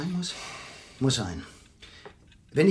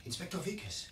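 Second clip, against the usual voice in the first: distant, muffled calls from outside; faint calls through the window; calling from afar; 13 dB quieter than usual. Acted. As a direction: call up from below at night. Calling inspector at night from outside.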